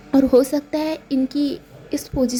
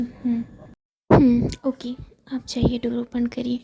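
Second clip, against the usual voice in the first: whisper. Acted. Hiding from person at door.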